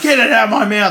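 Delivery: high, loud acted protest; hammed-up high-pitched shout; mock panicked yell. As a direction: yell it like the wrestler demanding relief. Acting out wrestler gagged, protesting.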